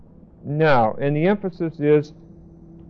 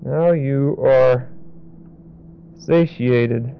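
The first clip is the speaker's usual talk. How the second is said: slow and lower, "now" stressed; slow, softer repeat; 3 semitones lower, slower than usual. Shown as a demonstration. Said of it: "what that really means is".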